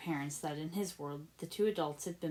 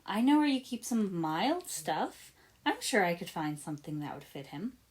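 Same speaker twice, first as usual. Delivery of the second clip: falsely helpful. Acted. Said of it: "in a falsely helpful tone".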